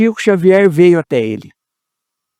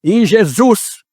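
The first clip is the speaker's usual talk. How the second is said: high-pitched calling out, mildly projected; retold loud shout; 8 semitones higher, much slower than usual. Builder testing the hall's acoustics, imitated high calling-out. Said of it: "ele gritou bem alto".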